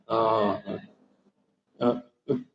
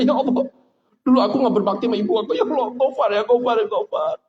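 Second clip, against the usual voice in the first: acted weeping plea for forgiveness; mock-tearful repentance; tearful remorse; 2 semitones higher than usual. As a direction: demonstrate crying in prayer. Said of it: "langsung nangis".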